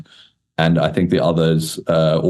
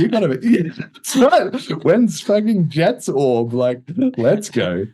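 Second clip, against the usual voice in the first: excited hype; 10 semitones higher, slower than usual. Real, not acted. Hyping up Jet launching an orb.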